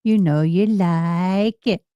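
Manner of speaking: drawn-out, coaxing "You know you like it"; slow teasing quote. Retold or imitated. Showing viewers how she said the movie line, slow and coaxing. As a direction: tease it slowly, word by word. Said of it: "That's how she said it".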